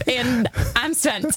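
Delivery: a hint of a movie character voice; deadpan quoted line; Austin Powers quote. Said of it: "Austin Powers".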